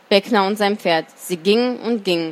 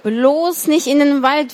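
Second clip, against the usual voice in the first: pleading; 6 semitones higher than usual. A narrator's reading. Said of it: "flehte er Beckner an".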